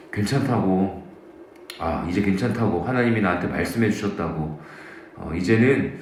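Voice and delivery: retold calm reassurance. Singer reassuring worried parents after tears stop, quietly calm. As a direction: settle down and gently reassure, as if recalling it. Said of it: "갑자기 눈물을 멈춥니다".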